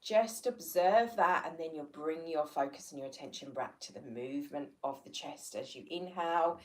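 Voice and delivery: measured breathing-exercise guidance, long pauses; guided meditation. Real, not acted. Teacher leading listeners through easy breathing, guided meditation. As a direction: talk them through each breath, leaving room to follow.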